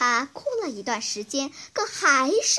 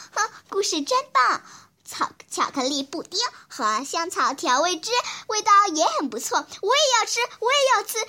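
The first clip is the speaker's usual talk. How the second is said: cheerful; 6 semitones higher than usual. Acted. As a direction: bounce with happy eagerness. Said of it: "欢快地说".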